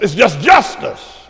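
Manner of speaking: ordinary delivery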